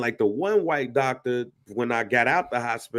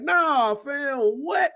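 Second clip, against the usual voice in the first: incredulous retort; 11 semitones higher, much slower than usual. Retold or imitated. Retelling his incredulous answer to doctors.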